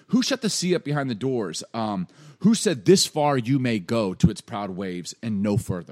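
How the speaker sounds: loud, emphatic rhetorical grilling; lightly acted, forceful divine challenge; God. God questioning Job about the sea, loud mocking challenge. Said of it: "almost like God's getting sarcastic".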